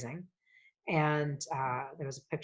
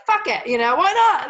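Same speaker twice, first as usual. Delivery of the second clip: dad's blunt voice; 13 semitones higher, 15 dB louder than usual. Retold or imitated.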